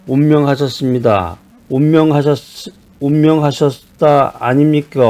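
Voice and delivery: 느릿한 경상도 사투리 흉내; Gyeongsang dialect. Retold or imitated. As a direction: lightly mimic a Gyeongsang speaker. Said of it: "경상도 사람들은 뭐라 그럽니까?".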